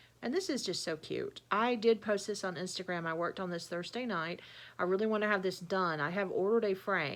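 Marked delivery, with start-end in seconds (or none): none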